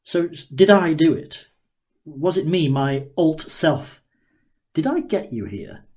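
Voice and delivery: a hint of a gleeful, curious inventor sizing her up; Daniel, eager scientist. Daniel marvelling at the girl before him, lightly voiced and eager.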